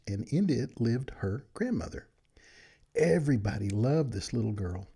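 put-on gentle read-aloud storytelling for children; bedtime story narration. A narrator's reading. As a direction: read it like a good night story to friends.

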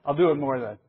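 joking threat with a real laugh; laughing tease. Real, not acted. Teacher teasing the class about his hand gestures, laughing. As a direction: tease them, laughing as you say it.

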